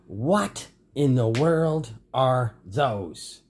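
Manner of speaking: slow, drawn-out cry of alarm. A narrator's reading. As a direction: grandmother cries out in shock. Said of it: "cry out".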